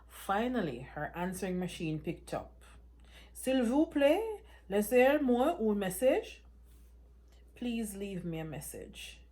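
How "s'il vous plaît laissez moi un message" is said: polite voicemail greeting. Acted. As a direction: play the mother's recorded greeting, prim and careful. Mother's French answering machine.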